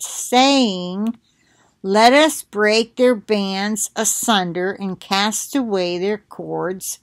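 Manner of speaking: slow, measured Bible reading; scripture reading. Real, not acted. Reading Psalm two to viewers, measured scripture reading. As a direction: read the verse out slowly, phrase by phrase.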